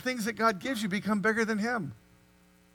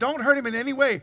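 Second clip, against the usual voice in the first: angel's command; 3 semitones higher, 4 dB louder than usual. Acted. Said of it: "the angel said".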